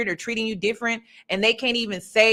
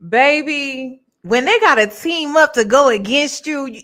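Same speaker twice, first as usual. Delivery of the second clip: hype encouragement; 3 semitones higher, 5 dB louder than usual. Real, not acted. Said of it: "hyping up Janelle".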